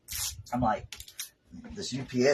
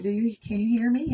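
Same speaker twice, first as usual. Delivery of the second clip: imitating the nurse; 9 semitones higher than usual. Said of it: "she's like".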